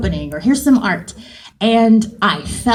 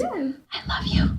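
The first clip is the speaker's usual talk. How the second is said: soft, slow, higher murmur; adoring; 8 semitones higher, 10 dB quieter, slower than usual. Retold or imitated. Director replying to the actor's ad-libs, adoring. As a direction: say it softly and slowly, as if won over.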